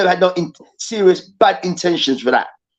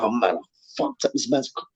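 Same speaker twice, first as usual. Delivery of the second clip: mock remorse; 8 semitones lower, 9 dB quieter than usual. Imagined remorseful player voiced.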